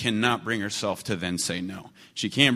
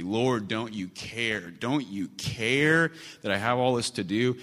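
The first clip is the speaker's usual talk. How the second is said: whiny self-pity; slower than usual. Retold or imitated. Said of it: "having a pity party".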